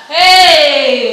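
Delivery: loud furious Hey; sharp shout to silence wife; angry shout. Acted. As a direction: bark it at her to stop. Marital quarrel, husband shouts.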